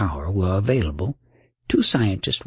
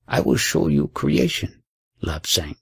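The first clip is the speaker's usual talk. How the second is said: gaily; 3 semitones lower than usual. Acted. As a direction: show the wonder playfully to the pupil. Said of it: "he said gaily".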